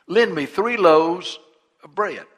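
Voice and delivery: slow, loud plea for bread; pleading friend. Acted. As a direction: beg a neighbour at midnight. Friend begging at midnight.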